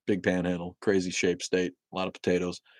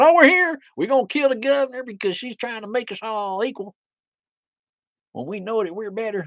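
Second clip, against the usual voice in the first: high, put-on Southern hick voice; hammed-up Southern accent, pitched way up; mock Southern accent; 7 dB louder than usual. Mocking Michigan militia as country hicks, in a Southern accent. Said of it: "why I have a Southern accent".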